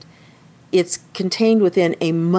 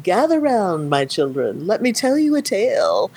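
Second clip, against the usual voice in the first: put-on old storyteller; 4 semitones higher than usual. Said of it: "And he's like, and it's kind of like".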